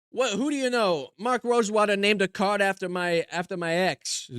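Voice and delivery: lightly voiced put-upon comedian; old-school joke delivery with catchphrase; put-on stand-up comic. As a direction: play a hammy one-liner comic. Delivers one-liners as joke comedian persona.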